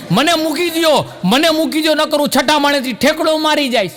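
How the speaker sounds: high, loud panicked plea; frantic madman. Retold or imitated. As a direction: beg to be let go like a lunatic. Madman begs doctor.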